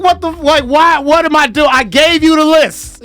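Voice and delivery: high, incredulous mock outburst; exasperated disbelief. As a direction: throw up your hands at the no-show. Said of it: "You're like".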